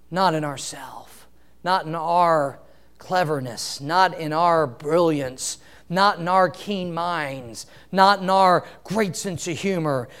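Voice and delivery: low, soft, slow repeated "not"; quiet emphatic list. Real, not acted. Preacher quietly lists where sufficiency is not. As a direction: drop it down and hit each "not".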